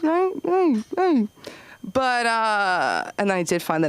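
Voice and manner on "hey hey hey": calling out. Real, not acted. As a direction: call them back, pitched up. Calling crowd to order.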